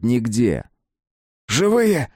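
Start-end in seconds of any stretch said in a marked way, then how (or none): 1.5-2.1 high loud cry; man shouting over rubble, loud cry. A narrator's reading. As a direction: yell for help. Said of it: "закричал он".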